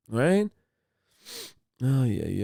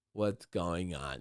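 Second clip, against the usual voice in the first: soft concern; 6 semitones lower, 11 dB quieter, slower than usual. Retold or imitated. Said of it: "and I was like".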